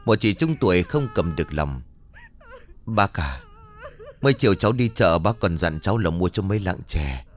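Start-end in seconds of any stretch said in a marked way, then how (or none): 2.9-7.2 a tearful neighbour breaking down; tearful lament to the dead old man; sobbing plea. Acted. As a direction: voice catching on sobs, quicker at the end. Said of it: "vừa cất lên khóc nấc".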